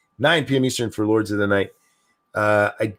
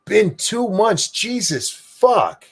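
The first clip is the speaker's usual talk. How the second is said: stunned disbelief; 10 semitones higher, much slower than usual. Real, not acted. Shocked reaction to long wait.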